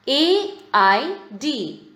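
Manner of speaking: slow classroom spelling; a beat on each letter. Shown as a demonstration. Teacher spells a word from reading.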